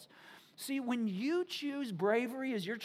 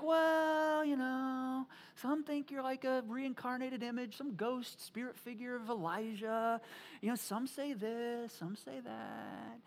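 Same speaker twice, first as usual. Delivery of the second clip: drawn-out, evasive answer; hedging; 3 dB quieter, slower than usual. Acted. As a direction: hem and haw, stretching out the vague bits. Disciples hedge when Jesus asks.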